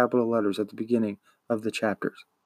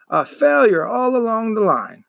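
higher, dismayed declaration; mock dismay; 10 semitones higher, 4 dB louder than usual. A narrator's reading. Shopkeeper declaring the boy a total failure, higher. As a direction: pronounce the verdict with relish. Coriander exclaiming after cry.

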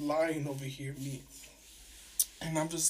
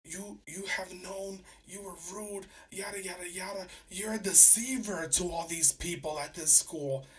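angry dean; 3 semitones higher than usual. Retold or imitated. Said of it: "he starts getting angry".

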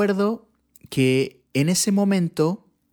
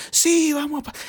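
mock cheerful; 14 semitones higher than usual. Imitating happy congregation singing.

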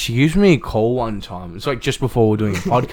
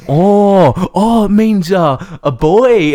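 imitating mum; 10 semitones higher, 6 dB louder, much slower than usual. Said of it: "she's like".

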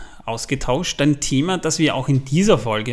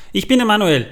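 gasping for air; 7 semitones higher, 4 dB louder, faster than usual. Real, not acted. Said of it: "außer Atem".

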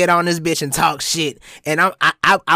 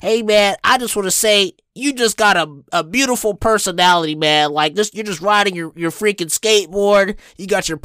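higher, upbeat impression of a friendly stranger; smiling white dude; 5 semitones higher than usual. Smiling driver complimenting the skateboarder, friendly enthusiasm. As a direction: gush compliments through a smile. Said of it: "he starts smiling and he's like".

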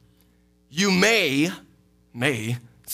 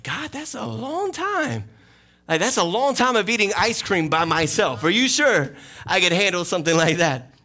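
mock whiny complaint; 5 semitones higher than usual. Preacher mocks himself pleading with God, whiny and high. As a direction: playfully moan about waiting alone.

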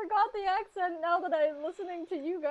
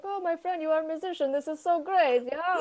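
put-on Russian accent; 4 dB louder than usual. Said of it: "Seven would probably say something like".

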